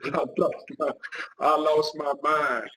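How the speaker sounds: slow, laughing I lost my mind; laughing emphatic repeat. Real, not acted. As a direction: savor it, laughing at the memory.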